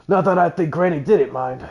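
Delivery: a hint of a Cockney accent; half-hearted Cockney juror; light Cockney. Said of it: "I gotta do more of a Cockney accent".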